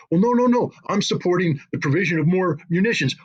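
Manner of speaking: high, mocking voice of a smug flag-waver; flag-owner shrugging off the question, mocked in a high voice; mocking supporter. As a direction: mimic the dismissive supporter up high.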